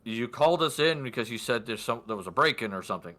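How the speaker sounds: lightly voiced offhand guard, quickening; a hint of a guard rattling off his report. Guard answering the lord, lightly acted, hurried and casual. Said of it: "And he goes".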